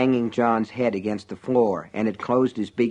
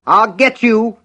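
high furious scream; 11 semitones higher, 8 dB louder, slower than usual. Acted. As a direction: scream the threat back. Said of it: "Buster screamed back".

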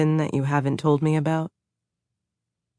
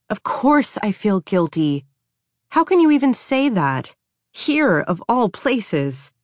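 upset outburst; 5 semitones higher than usual. Acted. Upset wife argues back.

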